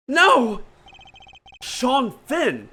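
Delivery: loud, high exclamation; shocked outcry. Acted. Listener learning who the president's son is, shocked outcry. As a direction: cry out in astonished disbelief.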